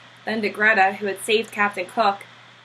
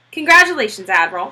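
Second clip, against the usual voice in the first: Klein voiced; 5 dB louder than usual. A narrator's reading. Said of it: "said Mister Klein".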